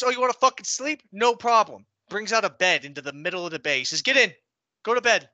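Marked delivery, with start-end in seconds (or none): 0.0-1.9 mocking drill sergeant. 4.0-5.3 barked order. Retold or imitated. Drill sergeant ordering.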